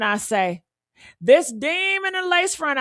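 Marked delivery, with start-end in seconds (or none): 1.2-2.8 rising outrage. Real, not acted. Repeat, even higher.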